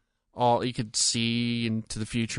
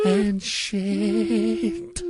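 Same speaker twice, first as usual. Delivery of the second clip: put-on Scottish accent; 9 semitones higher than usual. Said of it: "with his really thick Scottish accent".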